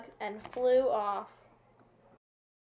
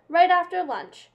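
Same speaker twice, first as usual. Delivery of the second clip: loud snake voice; 6 semitones higher, 9 dB louder than usual. A narrator's reading. Snake adds a condition.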